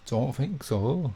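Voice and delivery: slow, drawn-out mock Northern accent; put-on Northern accent. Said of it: "Bit of a posh accent".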